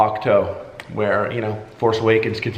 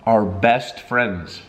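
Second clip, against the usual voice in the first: slow punchline; much slower than usual. Acted. Punchline of recited lyric.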